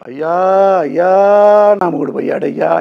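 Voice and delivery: imitating a widow's loud, high wail; mock wailing widow. Husband mocking the wailing he forbids his wife, loud, high mock lament. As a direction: ham up a widow keening over her husband. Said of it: "ఇట్లాంటివి వద్దు".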